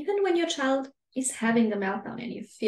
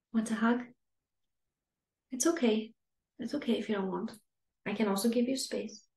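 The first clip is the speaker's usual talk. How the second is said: calm reassuring parent. Shown as a demonstration. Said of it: "Tell and signalize your child".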